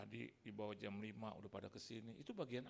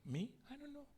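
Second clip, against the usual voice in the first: high, bewildered little voice; confused newcomer; 14 semitones higher, 4 dB louder than usual. Acted. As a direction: play a lost soul who knows nothing. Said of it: "Dia bilang". (suara tinggi bingung orang baru)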